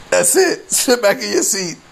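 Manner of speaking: a hint of an angry dad; mock stern father. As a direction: scold the kid in a put-on voice. Voicing the man scolding child.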